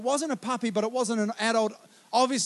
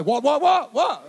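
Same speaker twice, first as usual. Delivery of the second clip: louder, higher mock confrontation with a bird; mock challenge; 4 semitones higher, 4 dB louder, slower than usual. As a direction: puff up at a passing bird.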